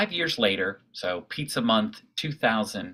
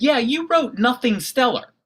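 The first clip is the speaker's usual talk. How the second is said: intimidating man; 12 semitones higher, 4 dB louder than usual. Retold or imitated. Large man confronts the blogger.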